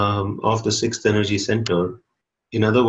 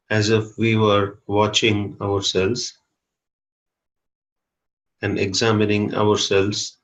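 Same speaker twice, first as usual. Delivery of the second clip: guided meditation. Real, not acted. Teacher leading a group to watch their breathing, calm guided meditation. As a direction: guide them inward calmly, with long pauses.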